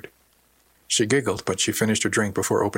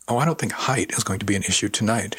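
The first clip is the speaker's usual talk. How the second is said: gentle stress on "height"; soft emphasis on height. A narrator's reading. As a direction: lean knowingly on the word "height". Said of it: "she said softly, with a particular emphasis".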